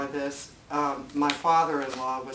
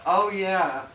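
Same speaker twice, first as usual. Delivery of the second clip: louder, higher, laughing editor voice; mock the editors remembering her through laughter; laughing imitation of annoyed editors; laughing mock recall; 4 semitones higher, 9 dB louder than usual. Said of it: "they thought".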